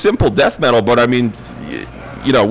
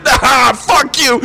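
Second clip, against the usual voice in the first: angry shout; 11 semitones higher, much slower than usual. Retold or imitated. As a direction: throw it at them, fed up. Yelling at laughing cops.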